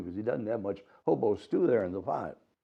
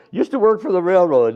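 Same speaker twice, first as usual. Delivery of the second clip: hobo voice; 7 semitones higher, 9 dB louder than usual. Acted. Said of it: "honey, yes".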